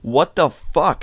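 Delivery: high, drawn-out indignant outburst; retold angry snap. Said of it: "that's when I snapped".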